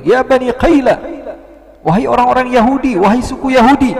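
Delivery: loud, high call to a crowd; shouting. Retold or imitated. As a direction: cry out the news from up on a rooftop. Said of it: "Akhirnya dia teriak".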